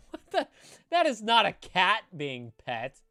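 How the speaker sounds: high-pitched and loud, in disbelief; shocked. Real, not acted. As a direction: yelp in horrified disbelief. Horrified reaction to something on screen.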